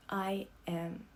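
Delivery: soft, slow whisper; whispered confession. Acted. Narrator holding the Colonel, whispering his own apology. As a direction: barely breathe the words. Hugging Colonel, only true thing.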